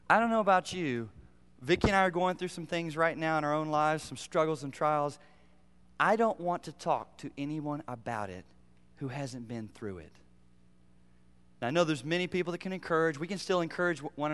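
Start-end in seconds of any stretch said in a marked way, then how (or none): none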